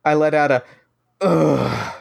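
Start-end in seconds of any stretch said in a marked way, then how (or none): 1.2-1.9 pointed groan. Acted. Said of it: "so she can hear it".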